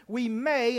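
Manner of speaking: "may" leaned on and held; stress on MAY. Real, not acted. Preacher qualifying a point for the congregation, stress on "may". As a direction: put the weight on "may". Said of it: "I do put emphasis on the word may".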